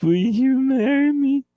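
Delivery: a nervous man popping the question; nervous proposal. Retold or imitated. Proposing at the Bruins game, nervous. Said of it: "and I'm like".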